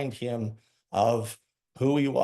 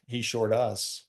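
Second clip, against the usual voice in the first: retold heartfelt assurance; 4 semitones lower than usual. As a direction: reassure him gently, like you mean every word. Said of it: "with all the belief I had in my heart".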